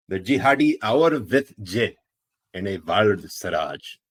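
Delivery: put-on loud Pakistani accent announcement. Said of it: "the Pakistani accent".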